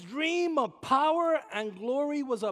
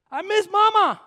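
raised grief; 12 semitones higher, 14 dB louder than usual. Real, not acted. Cry of longing.

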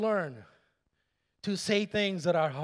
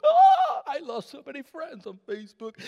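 dramatic wail; 4 semitones higher, 4 dB louder than usual. Retold or imitated. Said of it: "But Pastor Garcia".

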